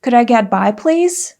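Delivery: courteous excuse me; polite request. Shown as a demonstration. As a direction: ask gently to pass. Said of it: "you can say".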